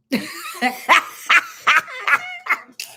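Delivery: loud, high cackle breaking out; high burst of laughter. Real, not acted. Streamer cracking up at a viewer's question. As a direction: laugh hard and high at the chat.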